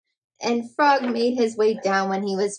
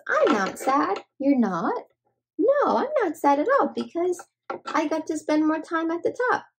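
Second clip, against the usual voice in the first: lightly higher, cheerful little bunny; a hint of a happy bunny, chirpy; 5 semitones higher than usual. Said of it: "But Bunny says".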